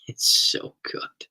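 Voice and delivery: very slow, nearly voiceless, dreamy; savoring whisper. Real, not acted. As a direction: linger on it like tasting the sandwich. Savoring memory of pastrami.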